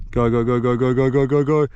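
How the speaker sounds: fighting a fish. Real, not acted. Fish pulling the hand line.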